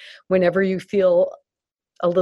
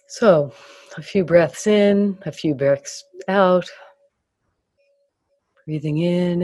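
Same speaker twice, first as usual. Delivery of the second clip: guided meditation. Acted. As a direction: ease them gently through the body. Leads guided body scan.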